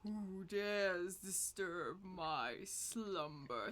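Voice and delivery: slow, lightly voiced ancient being; a hint of a waking giant; sleeping ancient god. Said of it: "says the house".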